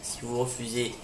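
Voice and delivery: soft, hissing villain threat; a quiet menacing grunt boss. Acted. The villain threatens the professor, quiet and menacing.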